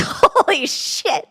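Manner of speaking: real laugh breaking through the words. Real, not acted. Laughing at the chat's singles bar joke.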